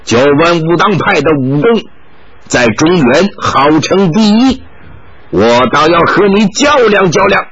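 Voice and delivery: put-on halting, slowed foreign-accented Mandarin; a touch of a foreign monk's awkward Chinese; stiff foreign Chinese. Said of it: "用生硬的汉语说道".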